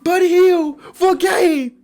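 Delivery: high, slow, drawn-out cheering; elated celebration. Real, not acted. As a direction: savour every word of the buzzer-beater. Celebrating the game-winner like a commentator.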